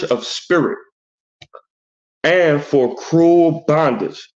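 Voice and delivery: slow, deliberate verse reading; scripture reading. Acted. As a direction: read each phrase out solemnly, with pauses. Reads scripture aloud.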